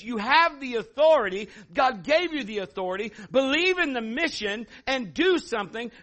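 high, loud preaching to the crowd; rally them, preach it out; full-force preaching. Acted. Pastor urging congregation to defy the giant, full-force preaching.

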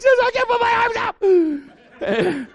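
very high, loud mock bawling; desperate wailing child. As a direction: bawl it like a hurt little kid. Desperate child pleads with sister.

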